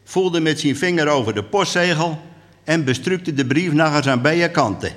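lively storyteller's reading; measured dialect storytelling; story narration. A narrator's reading. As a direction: tell it to an audience as a tale. Reads a story aloud.

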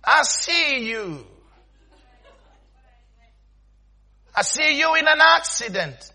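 soft, slow, drawn-out pronouncement; mock prophet. Prophet claiming a vision of harm, slow mock solemnity. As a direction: stretch it out like an ominous vision. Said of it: "come to me and say".

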